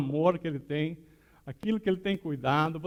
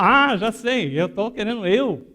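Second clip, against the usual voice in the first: loud, high burst of insight; sudden realisation; 4 semitones higher, 7 dB louder than usual. Retold or imitated. Woman realising she tried alone, loud and excited. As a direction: burst out as if it just clicked.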